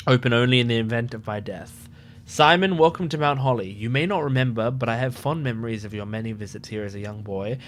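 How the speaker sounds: measured letter reading for the viewers; reading a letter aloud. Acted. Streamer reads the late uncle's letter, formal read. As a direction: read it out like a will, unhurried.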